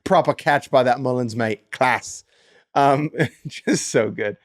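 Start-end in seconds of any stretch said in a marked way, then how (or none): 0.0-2.2 lightly hammed British accent; amateur put-on British accent. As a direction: read it like a British cricket fan. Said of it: "in your best British accent".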